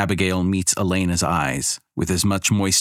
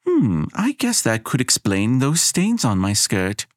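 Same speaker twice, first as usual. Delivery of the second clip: relieved; 6 semitones higher than usual. Acted. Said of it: "Elena says with immense relief".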